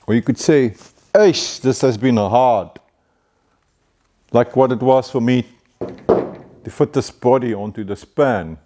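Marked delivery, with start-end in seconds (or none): 1.1-2.8 slow, sighing "Eish" of hardship; weary disapproval. Shown as a demonstration. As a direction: drag it out as if worn down by the job. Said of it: "or even disapproval".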